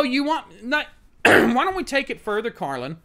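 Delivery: mock her escalating argument; sarcastic mock question. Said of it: "And it's like, Oh".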